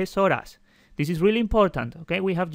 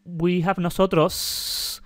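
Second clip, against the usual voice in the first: slow demo; slower than usual. Shown as a demonstration. Teacher to students, slowly showing the plural form. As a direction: slowly spell out "nosotros" for students. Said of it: "As you see".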